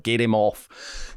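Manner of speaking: slow, mock South African coach; a light South African twang, drawn out; South African accent. Coach telling them to take the player off, South African accent. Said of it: "That's my South African accent".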